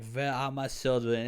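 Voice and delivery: a light imitation of Wanda's thick Eastern European accent, Ve for We; lightly mock Wanda's Eastern European accent, not overdone; Wanda's Sokovian accent. Vlogger quoting Wanda's line in her Eastern European accent, lightly mocking. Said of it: "calls her out on the accent".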